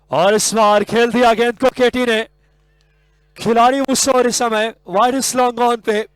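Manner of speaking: high, loud play-by-play burst; urgent, high-energy cricket commentary; excited wicket call. Real, not acted. Live call of wicket falling.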